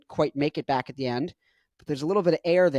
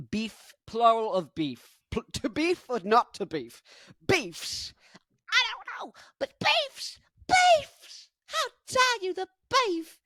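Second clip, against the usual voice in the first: much higher, mock posh British accent; 11 semitones higher, slower than usual. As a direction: ham up a fussy British gent. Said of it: "what I think Justin Hawkins sounds like".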